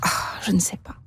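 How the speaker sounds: hushed, whispery admission of not knowing; torn sigh. Real, not acted. Sports reporter asked what she will do about the match, torn, whispery sigh. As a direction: sigh it out very softly, almost voiceless.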